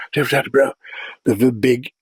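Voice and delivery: quick, hushed nature-documentary narrator; a light take on a British naturalist presenter; David Attenborough impression. Shown as a demonstration. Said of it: "I could do David Attenborough".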